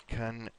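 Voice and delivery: "confused" in two slow parts, kun... FYOOZD; pronunciation demo. Shown as a demonstration. Teacher shows student the ending, slow demo of "confused". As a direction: stretch "confused" apart, "you" inside and D at the end. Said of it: "It's gonna be like this".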